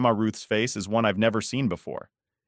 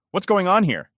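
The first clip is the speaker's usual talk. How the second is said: put-on high, louder sharp old grandmother; a stern grandma demanding answers; 10 semitones higher, 6 dB louder than usual. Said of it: "her voice sharp".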